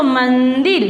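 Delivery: मंदिर with the nasal n clearly sounded before द; half n sounded. Shown as a demonstration. Teacher shows pupils how to read it, मंदिर with its half n. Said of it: "आधा ना पढ़ो इसको".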